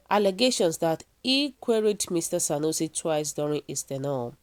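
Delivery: steady news-reader delivery of the report. Acted. Vlogger reading the news story to viewers, news-read style. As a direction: read it like a bulletin, measured and even.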